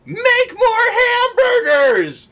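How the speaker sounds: high, loud exasperated yell of a boss; shouted, cracking high demand; mock boss yell. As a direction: bellow the order like a fed-up manager. Boss barking orders from office.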